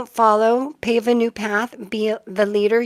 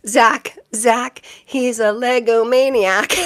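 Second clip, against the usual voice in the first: louder, slowed-down mock eighties TV ad line; old commercial jingle; 5 dB louder, slower than usual. Reader greets viewer Zach with an eighties ad line, mock jingle. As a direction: sing it out like a cheesy old commercial. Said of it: "every time I hear your name, Zach, I hear".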